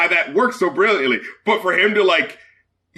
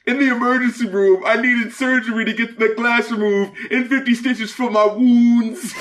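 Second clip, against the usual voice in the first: mock dramatic delivery; 4 semitones higher than usual. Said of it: "Just the way he says it is so bad".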